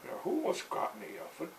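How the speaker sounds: high, startled squeaky question; high puzzled who almost got me; puzzled dad. Retold or imitated. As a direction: play the baffled father.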